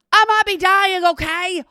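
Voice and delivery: loud, high comic shout; exasperated outburst. Acted. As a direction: yell it at the judging women, hammed-up. Imagined outburst at the waiting women.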